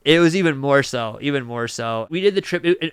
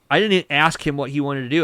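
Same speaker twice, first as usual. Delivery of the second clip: ordinary talk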